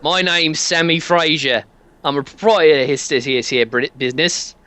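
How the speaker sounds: stumbling put-on British accent; a shaky Brit shopkeeper voice; bad British accent. Sammy Fraser introducing himself in a fumbled British accent. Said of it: "can't do this accent very well".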